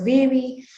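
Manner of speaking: put-on "baby" said as "vevi". Shown as a demonstration. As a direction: soften both b sounds in "baby" to v or w. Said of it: "b sound is replaced with".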